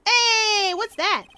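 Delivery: high, loud, drawn-out hey; startled call. Acted. Game character spotting something in the park, startled. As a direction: call out sharply at a sudden sight.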